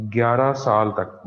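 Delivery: slowed right down for note-taking; slow dictation pace; deliberately slow. Shown as a demonstration. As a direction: stretch out ग्यारह साल तक word by word. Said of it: "चले मैं slow बोल रहा हूँ".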